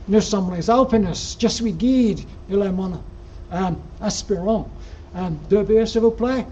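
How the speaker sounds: put-on schoolboy French in a Yorkshire accent; French spoken with flat Yorkshire vowels. Guide asking the surly barman for two beers, in Yorkshire-accented French. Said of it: "I went to my best Yorkshire French".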